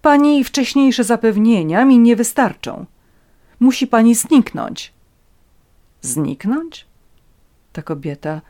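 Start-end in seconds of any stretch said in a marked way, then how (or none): 0.0-4.9 raised, loud, imperious demand; irritated. A narrator's reading. Countess orders Natalia to vanish, irritated and commanding. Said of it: "jeszcze bardziej zdenerwował ton i słowa". 6.0-6.9 taken aback. A narrator's reading. Natalia repeats the countess's demand, taken aback. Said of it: "zaskoczonej Natalii".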